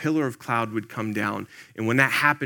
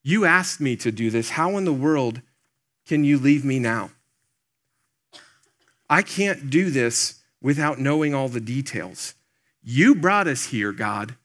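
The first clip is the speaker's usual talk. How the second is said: urgent, slightly raised complaint to God; desperate plea. Retold or imitated. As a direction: lean in hard then let it drop. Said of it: "Moses is probably thinking".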